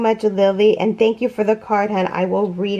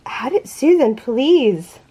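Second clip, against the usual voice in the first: normal talking voice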